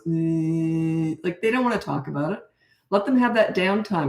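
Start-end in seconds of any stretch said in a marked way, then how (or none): 0.1-1.2 put-on tired kid grunt. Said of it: "their brain just goes".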